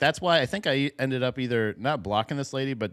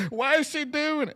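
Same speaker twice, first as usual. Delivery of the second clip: mock bafflement. Mimicking baffled viewers' reaction.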